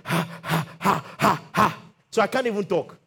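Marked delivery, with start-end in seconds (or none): 0.0-1.8 imitated gasping. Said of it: "I'm starting like this".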